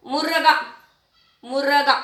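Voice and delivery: मुर्गा said as "mu-ra-gaa"; wrong split pronunciation. Shown as a demonstration. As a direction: put a vowel after the r in मुर्गा. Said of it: "मुर्गा नहीं ना".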